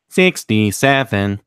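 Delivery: slow booming robot voice; robot voice, drawn out slowly. Shown as a demonstration. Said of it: "let me go ahead and do the robot voice for sixty-seven".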